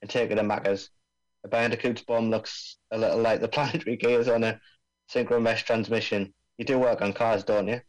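lightly voiced Aussie bomb expert; laid-back Australian accent, mate. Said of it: "I'm supposed to be doing an Australian accent here".

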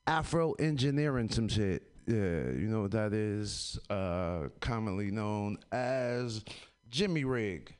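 muffled behind a mask; through a face mask. Real, not acted. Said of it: "I have a mask on my face".

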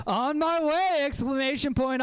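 "On my way!" squealed high and loud; thirsty, over-eager. Shown as a demonstration. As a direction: shout "On my way!" like you are desperate to come. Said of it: "make me sound like a thirsty bitch".

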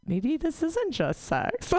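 slow, high mock realization; mock dawning realization. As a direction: let it dawn on you slowly.

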